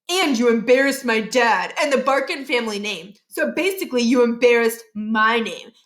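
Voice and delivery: lightly voiced bully kid, smug and threatening; a hint of a boastful bully making threats; bully Josh threatening.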